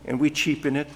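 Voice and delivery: earnest spoken prayer to God; closing prayer. Real, not acted. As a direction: pray aloud for the whole church.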